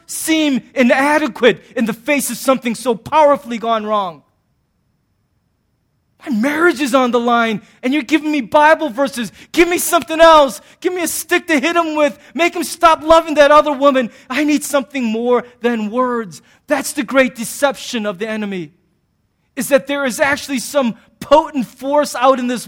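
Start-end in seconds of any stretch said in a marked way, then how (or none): 6.2-16.4 desperate plea. Retold or imitated. Quoting desperate counselee.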